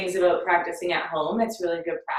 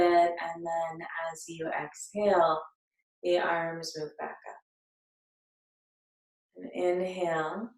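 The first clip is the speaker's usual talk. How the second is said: calm, unhurried meditation guide with long pauses; guided meditation. Acted. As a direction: lead them gently into breath and body awareness. Leads a breathing meditation.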